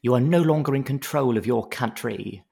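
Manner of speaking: only a hint of a singer's voice, half-remembered. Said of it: "a half-remembered singer".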